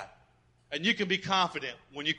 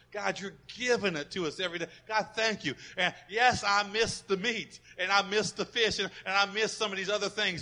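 earnest prayer voice, rising with conviction; 3 dB louder than usual. Acted. Pastor praying before the congregation, earnest. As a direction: pray it out to God.

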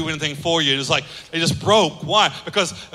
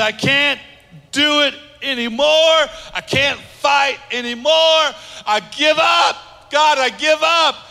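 giving up; 6 semitones higher, 4 dB louder, slower than usual. Pretend. Voicing someone who gives up.

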